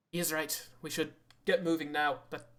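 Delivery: put-on light Irish accent for a drow. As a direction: speak with a hint of Irish. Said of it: "I don't know why Evie gets an Irish accent".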